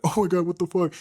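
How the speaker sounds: high-pitched, hammed-up panic; mock panic. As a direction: imitate a guy panicking over rejection. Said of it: "you guys, like, panic".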